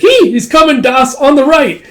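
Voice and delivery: high, loud shouted alert; urgent warning. Acted. Rocco warning Das of the pursuer. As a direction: yell the warning over the noise.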